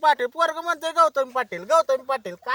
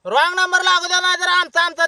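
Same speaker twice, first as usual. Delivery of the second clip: raised, heated protest; indignant shout; 3 semitones higher, 4 dB louder than usual. Real, not acted. Caller protesting to the prankster, indignant shout. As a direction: shout back, refusing the excuse. Caller disputes the wrong-number excuse.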